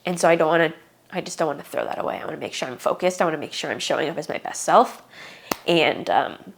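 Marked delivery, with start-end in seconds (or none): 1.1-5.0 holding back tears. Real, not acted. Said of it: "why am I crying again?".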